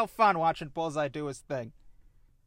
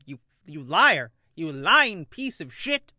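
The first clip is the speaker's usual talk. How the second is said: mock angry yell; 7 dB louder than usual. Voicing villain yelling at Matt.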